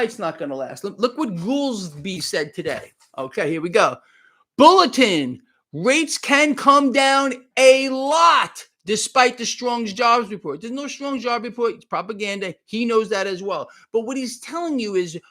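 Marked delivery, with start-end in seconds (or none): 4.6-10.6 loud, drawn-out announcement; mock news bulletin. Host announcing Fed remarks to viewers, mock bulletin. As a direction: boom it out like breaking news.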